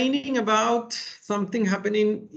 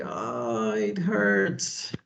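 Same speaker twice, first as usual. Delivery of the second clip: mock whimper; much slower than usual. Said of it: "he's like".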